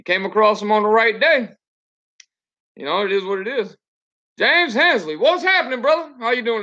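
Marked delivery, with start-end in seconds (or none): 4.4-6.6 cheerful greeting. Real, not acted. Greets a passing friend.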